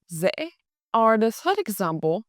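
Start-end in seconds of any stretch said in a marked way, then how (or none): 0.1-0.5 dễ said as "zeh" with a z; z-sounding d. Shown as a demonstration. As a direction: start dễ with a buzzing z. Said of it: "is pronounced".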